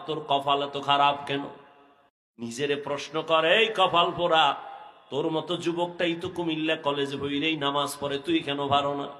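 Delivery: low, chant-like sermon delivery; intoned preaching reproach. Real, not acted. Preacher reproaches youths who skip prayer, intoned preaching. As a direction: press the reproach in rhythmic intoned phrases.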